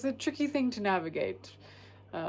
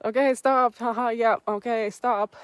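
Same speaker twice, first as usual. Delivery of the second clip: laughing mock protest; 4 semitones higher, 6 dB louder than usual. Fending off a touchy man.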